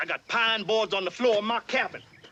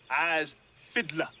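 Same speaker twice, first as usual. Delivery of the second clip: slow teaching demo; 2 semitones lower, slower than usual. Shown as a demonstration. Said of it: "Now you say".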